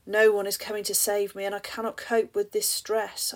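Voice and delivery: loud, fast, desperate cry; despairing outburst. Acted. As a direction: blurt it out in panic. Hopelessness section, despair.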